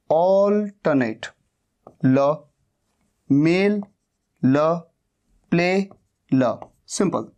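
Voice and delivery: ऑल्टरनेट drawn out slowly to show the L; slow teacher's demonstration of ऑल्टरनेट; slow sound breakdown. Shown as a demonstration. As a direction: stretch ऑल्टरनेट, holding its ल sound. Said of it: "ल का sound है इसका".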